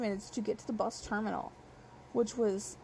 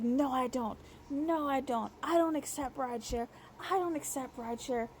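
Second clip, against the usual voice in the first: put-on childish tone; 3 semitones higher than usual. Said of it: "intentionally putting on, like, a childish tone".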